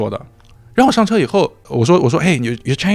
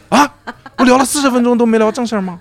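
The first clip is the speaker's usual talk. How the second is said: high, laughing mock shock; laughing disbelief; 8 semitones higher than usual. Retelling the interview to friends, laughing mock surprise. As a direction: laugh through the question in disbelief.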